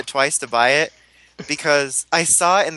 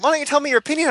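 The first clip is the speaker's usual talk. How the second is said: mocking whiny voice; 12 semitones higher, much faster than usual. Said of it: "They're like".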